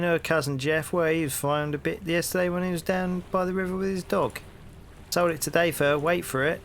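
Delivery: hearty London copper, rising into the question; cheery Cockney policeman greeting a stranger; cockney bobby. Acted. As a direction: play the nosy beat cop on his rounds. Policeman gossips.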